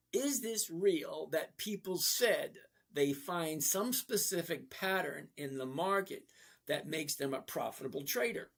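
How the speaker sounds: slow, careful re-read of the question. Shown as a demonstration. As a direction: take it slowly so everybody can hear. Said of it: "read it again slower".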